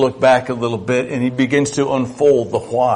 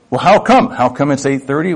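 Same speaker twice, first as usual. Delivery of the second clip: imitating a toddler; 3 semitones higher, 4 dB louder, faster than usual. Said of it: "It comes out in toddlers".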